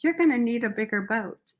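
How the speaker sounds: breathy whispered joke line; whispered punchline. Retold or imitated. The veteran delivering his Jaws joke, in a whisper. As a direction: whisper it like a secret.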